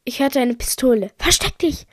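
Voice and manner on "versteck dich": high, quick warning; urgent call. A narrator's reading. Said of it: "rief ich Jona zu".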